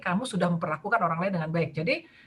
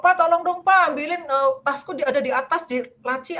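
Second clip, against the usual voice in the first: anak meminta tolong; 6 semitones higher, 4 dB louder than usual. Retold or imitated. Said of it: "akan minta tolong".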